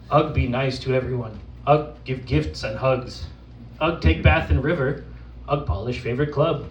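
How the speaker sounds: lightly voiced simple caveman; caveman persona. Poet performing as Ugg for the audience, caveman persona. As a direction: recite it as an earnest caveman, lightly played. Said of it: "from the perspective of an actual caveman".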